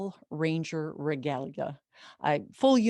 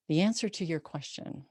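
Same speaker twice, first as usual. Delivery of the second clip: solemn. Real, not acted. Solemn closing line.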